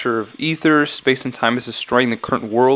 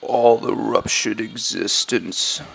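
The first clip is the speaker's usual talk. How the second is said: put-on very slow, drawn-out character accent; slow, halting mock accent; Ben; 3 dB quieter, much slower than usual. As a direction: stretch every word out in a put-on accent. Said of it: "I'm gonna do a Ben accent".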